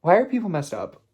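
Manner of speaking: real outrage at cruelty; a frustrated cry at the world; exasperated outburst. Real, not acted. Reacting to kidnapping story.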